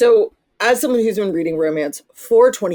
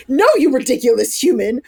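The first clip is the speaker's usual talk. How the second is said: mock exasperation; 4 semitones higher, 3 dB louder, faster than usual. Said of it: "my initial instinct is".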